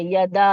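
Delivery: "یدا" with the final a held long; "یدا" elongated; long madd. Shown as a demonstration. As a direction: stretch the a of "یدا". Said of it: "three to five counts پڑھیں گے".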